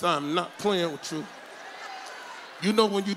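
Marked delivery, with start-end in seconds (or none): 0.0-1.3 low, tight words through the teeth; talking through teeth. Shown as a demonstration. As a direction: hiss the threat through your teeth. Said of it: "Now I'm talking through my teeth".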